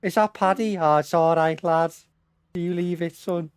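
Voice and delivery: gushing fan who lets anything slide; starstruck homeowner. Retold or imitated. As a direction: homeowner meeting his hero. Homeowner forgives the fighter again.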